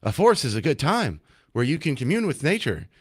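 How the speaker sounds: hammed-up singsong announcer talking down to kids; lightly mock a cheesy public service ad; mock kids' PSA, sing-song and overdone. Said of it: "nobody talks like that".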